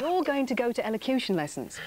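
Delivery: lightly voiced adult laying down the rule; grown-up's order to a child. Retelling what a five-year-old was told, mock firm order. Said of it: "being told at the age of five".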